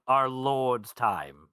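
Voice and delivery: drawn-out, mildly sarcastic delivery; slow, lightly mocking deference; a little sarcastic. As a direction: stretch it slowly with a touch of sarcasm. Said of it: "he says it a little sarcastically at this point".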